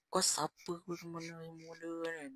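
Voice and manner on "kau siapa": angry retort. Retold or imitated. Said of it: "dia marah-marah aku".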